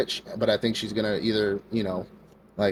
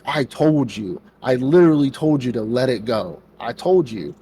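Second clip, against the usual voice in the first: told-you-so; 2 semitones higher, 4 dB louder than usual. Retold or imitated. Knight scolds the boss.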